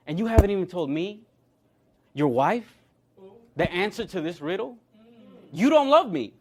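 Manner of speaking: mildly hammed-up plea of a hurt wife; mock pleading. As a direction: imitate a wife's reproach, pitch jumping up on key lines. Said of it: "starts weeping and sobbing and crying and pleading with him".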